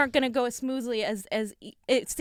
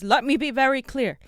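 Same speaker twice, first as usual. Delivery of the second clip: a light take on Bernie's stump-speech cadence, barely off his own voice; Bernie Sanders impression; 4 dB louder than usual. Co-host briefly imitating Bernie for the stream, a hint of Bernie. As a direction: lean into "let me be very clear" like Bernie, only a touch. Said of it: "I'm gonna do the Bernie thing".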